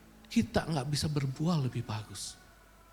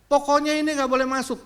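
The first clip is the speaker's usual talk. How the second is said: mock officer; 9 semitones higher, 7 dB louder, faster than usual. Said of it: "Itu ngecek-ngecek begitu".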